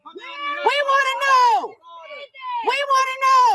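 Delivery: angry demanding shout. Real, not acted. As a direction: yell it at the house. Yelling at the parents.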